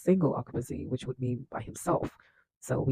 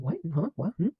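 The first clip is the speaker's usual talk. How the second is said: short rising puzzled questions; mock surprise; 3 semitones higher than usual. Recapper imitates Izzy jolting up at Benji's news, mock surprised. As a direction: play a baffled double take, lightly. Acting out a startled reaction.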